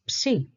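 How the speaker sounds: "psi" as one syllable, p and s together; syllable demo. Shown as a demonstration. Teacher giving the first syllable, sounded out clearly. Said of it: "So the first syllable is".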